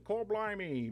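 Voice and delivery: Cockney "Cor blimey" thrown out; Cockney accent. Retold or imitated. Reading the AI's accents to the class, Cockney. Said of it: "it jumps into Cockney".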